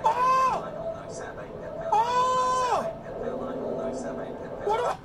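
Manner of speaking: high startled cries; short frightened yelps; scared horror game streamer. Real, not acted.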